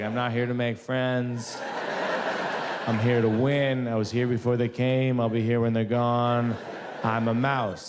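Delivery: lightly voiced defiant mouse confessional; reality show contestant. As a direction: declare it to camera, a hint of bravado. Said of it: "he did a confessional".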